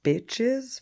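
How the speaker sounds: taunting jeer rising high at the end; mocking mimicked yell; mock screaming. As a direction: imitate a screamed taunt, not full force. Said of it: "and screaming".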